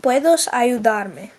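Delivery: very slow, careful Spanish. Shown as a demonstration. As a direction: model it slowly. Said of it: "you would say".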